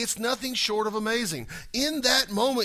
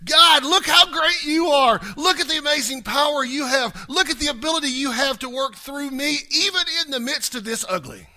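high, loud shout of praise; exultant praise, near shouting; praising shout; 8 semitones higher, 8 dB louder than usual. Retold or imitated. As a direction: cry out in awe at God's greatness. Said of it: "Or will you do this?".

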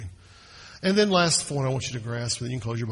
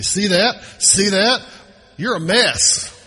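higher and louder, pointing out every fault; harsh accusing voice; 8 semitones higher, 9 dB louder, slower than usual. Pretend. Pastor imagines a condemning Jesus, loud mocking scold. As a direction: jab at the sinner like a fault-finding judge. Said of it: "Jesus doesn't come into your life and your faults and say".

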